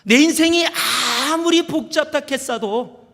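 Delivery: high-pitched attempt at Gyeongsang accent; shaky-handed amateur Gyeongsang dialect, emphatic. Shown as a demonstration. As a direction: imitate Gyeongsang speech, off-target. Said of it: "이거, 이 마-, 깨는 아닌데".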